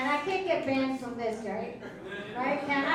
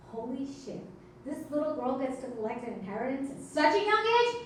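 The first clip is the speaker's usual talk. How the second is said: gleeful inner thought. Retold or imitated. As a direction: savour the luck, ending big. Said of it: "My second thought".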